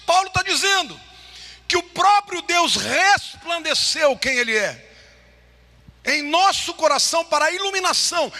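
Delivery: high, forceful pulpit proclamation; impassioned preaching. Real, not acted. Preacher proclaiming God's glory to the congregation, impassioned.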